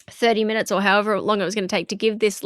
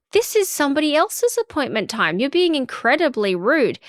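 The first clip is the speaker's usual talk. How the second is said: higher-pitched, mildly exasperated retold reprimand; indignant telling-off; 5 semitones higher than usual. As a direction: act out putting a pushy client in their place. Retold telling-off of pushy client.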